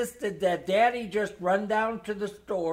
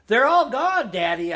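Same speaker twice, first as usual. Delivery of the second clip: excited yell; 5 semitones higher, 7 dB louder than usual. A narrator's reading. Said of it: "I yelled".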